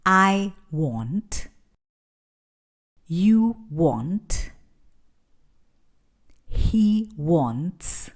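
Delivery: slow, clear phrases for learners to repeat; model drill. Shown as a demonstration. Teacher leads the repeat-after-me drill, slow and clear. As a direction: leave room after each phrase for the echo. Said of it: "Repite después de mí".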